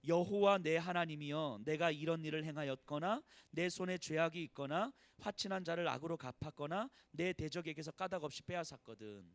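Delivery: leading the congregation in reading scripture aloud. Shown as a demonstration. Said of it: "시작".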